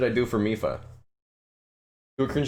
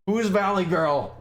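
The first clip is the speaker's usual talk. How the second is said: high slow squeak; 7 semitones higher than usual. Acted. Squeaky confused character.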